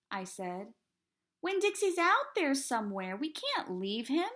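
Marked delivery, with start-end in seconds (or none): 1.4-4.3 high, loud, desperate protest; desperate plea. A narrator's reading. Girl begging the preacher not to leave, high and urgent. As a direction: refuse to abandon the lost dog. Opal pleads to keep searching.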